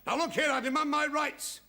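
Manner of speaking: indignant. Acted. Indignant man demands his rights.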